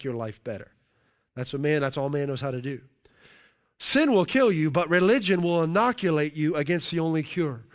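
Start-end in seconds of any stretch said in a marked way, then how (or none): 3.8-7.6 preached louder. Shown as a demonstration. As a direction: preach it out hard from the first word. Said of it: "I'll read that again".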